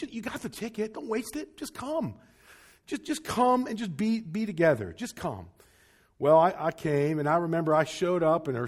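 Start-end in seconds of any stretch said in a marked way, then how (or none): 0.0-5.5 gentle urging. Retold or imitated. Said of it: "just said".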